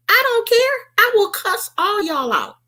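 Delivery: high, defiant declaration; high sassy threat. Retold or imitated. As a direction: dare them, pitched high. Threatening to cuss out.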